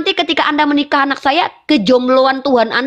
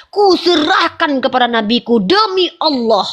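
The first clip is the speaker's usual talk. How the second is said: mock crying. Mock tearful handing over daughter.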